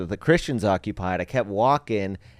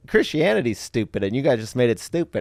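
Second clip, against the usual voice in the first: put-on Texas accent; 4 semitones higher, 3 dB louder than usual. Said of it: "my favorite thing about a Texas accent".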